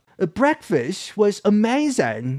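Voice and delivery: London-style English pronunciation. Contrasting Scouse speech, giving the London version in a London English accent. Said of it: "런던 영어로 치면은".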